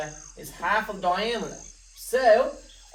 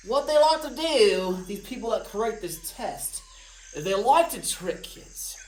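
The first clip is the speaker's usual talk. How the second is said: creepy. Acted. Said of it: "that sounded kinda creepy".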